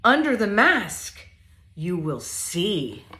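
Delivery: lively, sing-song picture book reading; reading to children. Acted. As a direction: read it playfully to little ones.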